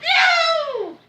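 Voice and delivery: high loud laughing no; laughing shout. Real, not acted. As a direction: yell it while laughing.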